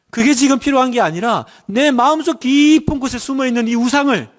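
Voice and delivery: earnest pleading prayer voice. Shown as a demonstration. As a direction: pray it aloud as a model for the church. Pastor models a prayer aloud. (간절한 기도 목소리)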